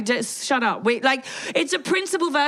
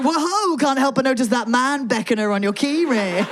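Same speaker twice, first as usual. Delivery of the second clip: mock flirt; 3 semitones higher, 3 dB louder than usual. Acted flirt line, laughing.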